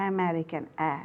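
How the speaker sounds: "American" begun on an open "a", then the vowel alone; opening "a" sound. Shown as a demonstration. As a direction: show the vowel that opens "American", then isolate "a". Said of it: "this sounds as a".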